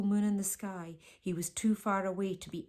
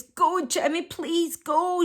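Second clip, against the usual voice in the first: higher, louder desperate plea; pleading; 9 semitones higher, 7 dB louder, slower than usual. A narrator's reading. Martine begging Jemmy to flee, loud high plea. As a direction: beg him to go, voice pitched up. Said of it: "she pleaded".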